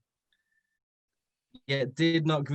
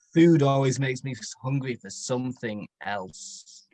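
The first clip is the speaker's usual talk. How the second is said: creepy lord. Acted. Lord Dark creepy line.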